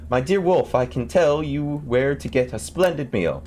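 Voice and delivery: high, slow, sweetly persuasive call; coaxing little boy. A narrator's reading. Tom Thumb luring the wolf, high slow coaxing call. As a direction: tempt the wolf from inside. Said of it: "he cried out from inside the wolf".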